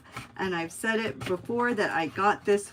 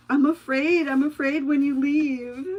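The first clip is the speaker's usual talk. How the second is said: slightly hammed-up worry, higher and louder; retold anxious plea; 6 semitones higher, 6 dB louder than usual. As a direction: imitate a trainee afraid of being left. Voicing the anxious trainee.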